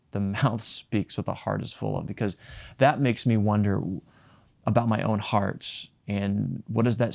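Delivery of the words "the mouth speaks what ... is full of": rueful laugh. Real, not acted. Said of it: "I hate that Jesus says that".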